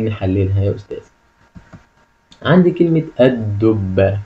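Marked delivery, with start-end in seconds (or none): 3.2-4.2 slow model reading. Shown as a demonstration. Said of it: "كلمة سهلة وبسيطة".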